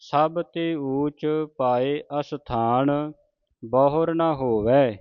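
slow, measured sacred reading; deliberate Gurbani recitation for learners; scripture recitation. Acted. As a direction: recite phrase by phrase, stretching the vowels.

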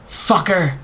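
high, loud curse; angry scream. A narrator's reading. Fiancée stomping on the man's head, high angry yell. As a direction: spit the curse at him as you stomp. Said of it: "she screamed".

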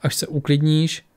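grave and slow; serious. Acted. Lisbeth sternly advising the furious Tora, slow and serious. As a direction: say it firmly and seriously. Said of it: "řekla Lisbeth vážně".

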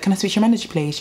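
a hint of the demanding customer; authority voice. Customer at a café asks for the manager, mildly authoritative. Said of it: "that authority talk".

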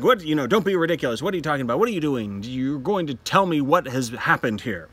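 fast, loud mock scolding; rushed dismissive husband, hammed-up; Torvald scolding. Teacher voicing Torvald holding Nora back, fast mock scolding. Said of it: "Torvald's holding on to her saying".

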